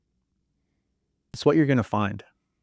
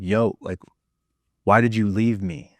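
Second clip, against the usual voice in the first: put-on a touch higher, pleading little kid; lightly voiced hurt child; 4 semitones higher than usual. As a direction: plead like the abandoned little you. Speaker voices his hurt child self.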